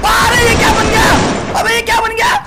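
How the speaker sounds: shocked at what just happened; surprised shout. Real, not acted. Shocked at character change.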